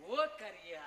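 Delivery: low, drawn-out taunt; comic jeering call; teasing name-calling. Acted. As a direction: call the nickname mockingly.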